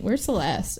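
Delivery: lightly imitated nonchalance; low-key retold afterthought; casual question. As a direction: ask it offhand, dropping away. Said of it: "Like, kinda casually".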